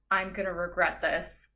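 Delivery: low, ominous retold line; grim resolve. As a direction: say it low and deadly serious, imitating him. Randy's grim line before grabbing neck.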